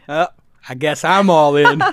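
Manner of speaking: lightly put-on old poker hand; a touch of John Wayne stepping up to bet; Bill Gurley impersonation. Host shows an investor's poker tell, light impersonation. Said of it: "that's literally like Doyle Brunson".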